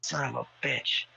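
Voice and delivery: high, drawn-out dismayed cursing; retold panic. Grower retelling his panic downstairs after work, mock dismay. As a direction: replay a dismayed groan of a curse, stretched out. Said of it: "I was in a little panic".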